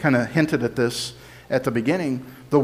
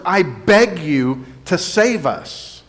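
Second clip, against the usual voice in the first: mild pleading, higher and drawn out; slow, raised-pitch plea; begging; 4 semitones higher, slower than usual. Retold or imitated. Explaining what Hosanna means, mildly begging. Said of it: "That means to beg or beseech".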